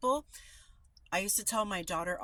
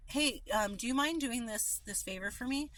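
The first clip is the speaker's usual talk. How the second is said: polite request; 4 semitones higher than usual. Shown as a demonstration.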